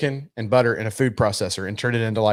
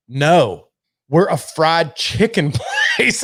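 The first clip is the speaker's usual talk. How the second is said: mock worker; 3 semitones higher, much slower than usual. Quoting Popeyes worker.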